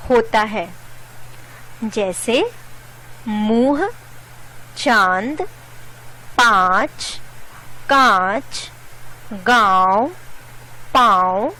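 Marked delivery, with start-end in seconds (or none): 3.3-11.5 vowels of मुंह, चांद, पांच, कांच, गांव, पांव sounded through nose and throat; chandrabindu nasal vowels. Shown as a demonstration. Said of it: "इसका उच्चारण नाक".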